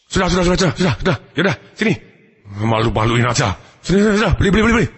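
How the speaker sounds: hurried repeated pleas to stop; acted flustered giving-in; embarrassed papa. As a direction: placate the child to save face. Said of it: "Papanya malu".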